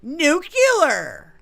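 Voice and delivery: high, loud mock Trump exclamation; Trump impression. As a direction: blurt the word like Trump, loudly. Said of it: "And then he's like".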